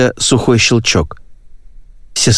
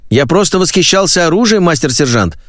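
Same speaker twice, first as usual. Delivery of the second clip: fawning recruit; 7 semitones higher than usual. Acted. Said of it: "излучать вкрадчивую льстивость".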